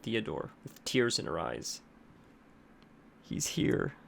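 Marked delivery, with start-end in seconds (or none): 3.2-3.9 frightened whisper. A narrator's reading. Terrified patient senses the demon.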